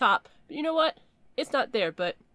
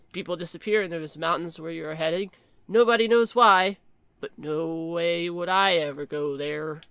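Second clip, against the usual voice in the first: put-on ominous old local; 5 semitones lower than usual. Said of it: "I don't know why I'm talking like that".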